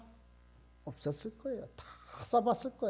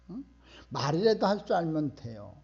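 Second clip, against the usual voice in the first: ordinary delivery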